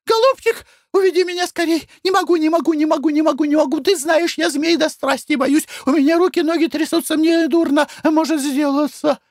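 very high, loud panicked pleading; terrified wife squealing at a snake; shrieking in terror. Acted. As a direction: beg your husband to take you away from the snake. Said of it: "пронзительно взвизгнула".

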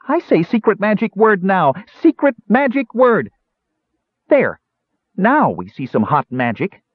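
high-voiced dwarf proclamation; yelled incantation. A narrator's reading. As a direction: proclaim a spell in a small creature's yell. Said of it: "and yelled".

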